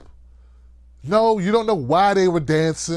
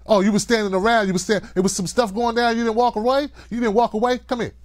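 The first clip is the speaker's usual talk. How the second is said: stern parent; 2 semitones higher than usual. Retold or imitated. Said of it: "I was taught".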